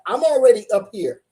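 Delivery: loud, excited burst; hyped up. Real, not acted. Livestream host telling viewers where he's at, hyped up. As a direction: punch it out, all fired up. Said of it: "this guy is hyped up".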